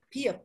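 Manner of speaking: biep softly, starting like P with a puff; aspirated Korean B. Shown as a demonstration. Teacher summing up the letter, soft airy biep. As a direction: release breath on biep. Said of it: "Ada hembusan nafasnya".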